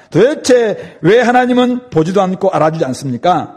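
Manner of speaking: mildly exasperated, imitated protest; protesting prayer. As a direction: question God as if wronged. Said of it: "이렇게 항변하면서 기도한다는 것입니다". (답답한 듯 항변하는 흉내)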